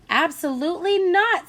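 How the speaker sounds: loud, high, flat refusal; mother refusing her son, loud; firm refusal. A narrator's reading. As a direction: shut it down hard. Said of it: "said the boy's mother".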